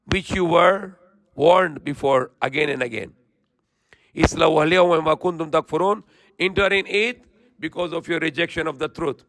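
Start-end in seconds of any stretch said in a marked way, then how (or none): 4.1-6.0 swift, even Quranic recitation. Acted. Preacher reciting the verse to listeners in quick chant.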